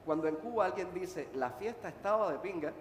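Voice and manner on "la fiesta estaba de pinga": the party was great, "estaba" lifted; enthusiastic praise. Shown as a demonstration. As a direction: say it as a compliment, stress on estaba. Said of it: "quiere decir que era tremenda fiesta". (con entusiasmo, "estaba" resaltado)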